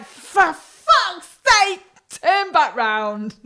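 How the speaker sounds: mock exasperation. Retold frustration on uniform day.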